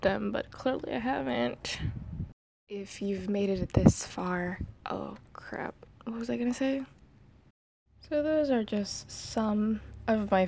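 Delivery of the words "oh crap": under-breath whisper; whispered curse. Real, not acted. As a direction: mutter it to yourself, unvoiced. Blooper muttered under breath.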